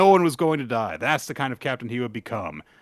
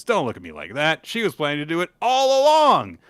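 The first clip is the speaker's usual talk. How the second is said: Kathy's voice; 4 semitones higher, 4 dB louder than usual. Acted. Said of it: "so she says".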